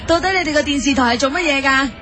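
usual speaking voice

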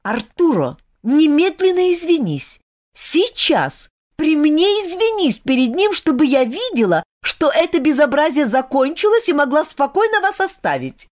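put-on young woman ordering an apology; categorical demand. A narrator's reading. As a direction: insist he apologize right now. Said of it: "категорически потребовала".

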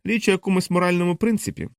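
моральному принципі pressed out like a product name; mock weight on моральному принципі; sneering stress on моральному принципі; stress on last words. A narrator's reading. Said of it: "зробила такий наголос на двох останніх словах".

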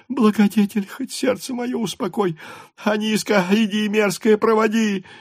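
put-on high, sharp shout at the girl; angry yell. A narrator's reading. Mother shouts angrily at the servant girl. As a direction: snap orders at the servant. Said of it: "крикнула она на девку".

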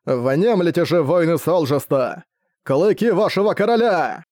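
roaring rallying speech. Acted. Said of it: "Его звериный рёв разнёсся над полем боя".

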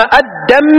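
"الدم" as ad-damm, held m; mistaken doubled mim. Shown as a demonstration. Teacher showing a mistake, "الدم" with a heavy m. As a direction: hold the final m of "الدم" doubled. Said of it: "هذا غلط".

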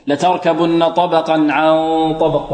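full nasal hum on the n of عن before طبق; غنة كاملة. Shown as a demonstration. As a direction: recite لتركبن طبقا عن طبق, holding each hum. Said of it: "والغنة هنا كاملة". (تلاوة بغنة كاملة في عن طبق)

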